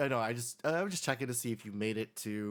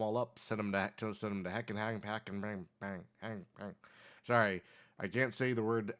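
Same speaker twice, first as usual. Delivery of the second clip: put-on very old man. Old man tells local legend.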